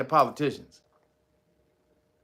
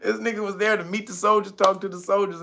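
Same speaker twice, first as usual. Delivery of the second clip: laughing; 5 semitones higher than usual. Real, not acted. Laughing at own joke.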